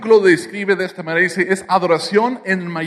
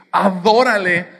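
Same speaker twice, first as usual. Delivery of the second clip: emphatic call; 4 dB louder, slower than usual. Retold or imitated. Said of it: "en mayúsculas con signos de exclamación".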